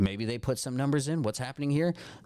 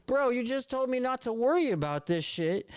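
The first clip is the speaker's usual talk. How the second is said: exasperated disbelief; 11 semitones higher than usual. Retold or imitated. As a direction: throw it back at them, incredulous. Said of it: "And then you go".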